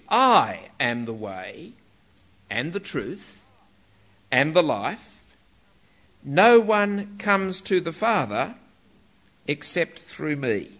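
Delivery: slow, with a pause after each claim; emphatic "I". Shown as a demonstration. Preacher reading Jesus' words from John, slow and emphatic. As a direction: stress "I", then set out each phrase slowly. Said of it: "because of its emphasis".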